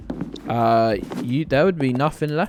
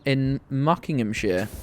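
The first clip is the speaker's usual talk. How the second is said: slow pun delivery. Shown as a demonstration. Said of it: "let me say that slower".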